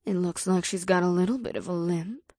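teasing. A narrator's reading. Ada about the redhead walking away, teasing. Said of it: "Ada teased as she watched".

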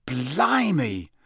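a long drawn-out, swooping exclamation; amazed, drenched grumble; astonished schoolboy exclamation. Acted. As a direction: stretch it out in amazement. Ron soaked by the downpour.

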